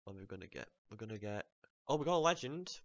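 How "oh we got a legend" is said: excited. Real, not acted. Legend unboxed.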